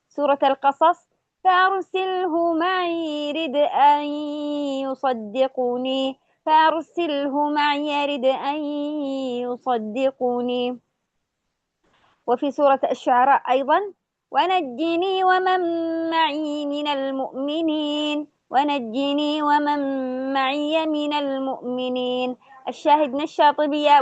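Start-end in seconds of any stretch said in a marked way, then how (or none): 1.4-10.8 slow melodic tajweed chant; Quran recitation. Shown as a demonstration. 14.3-22.4 slow melodic tajweed chant; Quran recitation. Shown as a demonstration.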